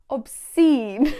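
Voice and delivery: breathy whispered "Obscene" with a rise; disgusted whisper. Shown as a demonstration. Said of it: "show absolute disgust".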